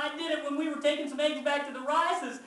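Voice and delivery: loud, high, desperate outburst; yelled confession. A narrator's reading. Child confesses whole story to Mama, yelled outburst. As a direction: pour it all out at a yell. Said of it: "can't help it. I yell out".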